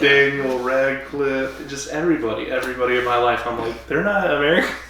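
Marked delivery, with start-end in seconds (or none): 3.9-4.8 mock astonishment, pitched higher; higher, incredulous imitation of finding out; retold disbelief. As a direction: replay the moment of disbelief. Retold disbelief about actors' nationality.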